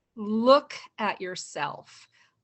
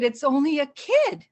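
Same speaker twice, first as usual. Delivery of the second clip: talking herself down; 6 semitones higher, 5 dB louder than usual. Retold or imitated. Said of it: "And I said".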